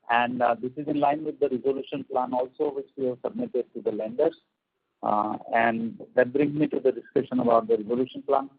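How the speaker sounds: choppy bad phone line; cutting in and out on a call; voice breaking up. Real, not acted. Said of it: "your voice is, uh, like, breaking up in between".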